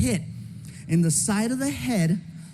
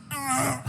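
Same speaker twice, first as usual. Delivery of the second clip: strangled scream; 4 semitones higher, 5 dB quieter than usual. Retold or imitated. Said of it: "I couldn't even scream".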